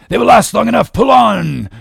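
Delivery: high, loud, forceful command; shouted order. A narrator's reading. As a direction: overrule the crewman at a shout. Captain overruling the oarsman.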